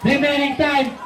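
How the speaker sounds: brisk courtside game call; live play-by-play. Acted. Announcer calling the game to the Wildcat crowd, live play-by-play. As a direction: call the plays as they happen.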